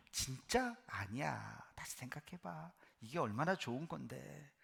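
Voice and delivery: sweet tempting whisper. Acted. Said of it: "사탄은 언제나 달콤하게".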